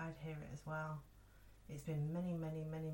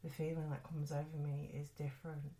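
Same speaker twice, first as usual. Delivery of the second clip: measured, even storytelling voice; ghost story narration. Acted. Podcast host reading a ghostly hospital story to listeners, measured narration. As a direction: recount an eerie tale, pausing between phrases.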